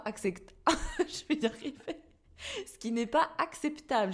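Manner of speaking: blocked nose, laughing through it; stuffy nose. Real, not acted. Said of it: "J'ai le nez bouché".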